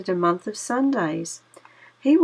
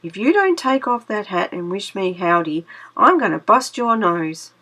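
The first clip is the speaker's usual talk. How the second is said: threatening; 3 dB louder than usual. Acted. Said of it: "threat to Tar Baby".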